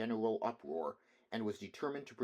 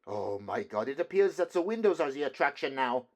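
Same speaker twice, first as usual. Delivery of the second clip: rising, louder despairing cry; 4 semitones higher, 7 dB louder than usual. A narrator's reading. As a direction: lament it as hope slips away. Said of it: "wringing his hands in despair".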